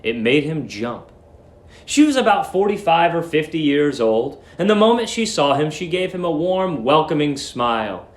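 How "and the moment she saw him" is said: usual speaking voice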